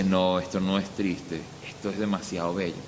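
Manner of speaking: hushed, low reassurance; tender realization. Acted. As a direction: say it gently, as if moved by the beauty. Voicing a moved believer's tender realization.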